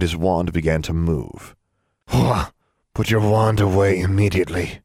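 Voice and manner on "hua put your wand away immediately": stern fatherly command; severest tone. A narrator's reading. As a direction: order a child, very severely. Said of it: "in his severest tone".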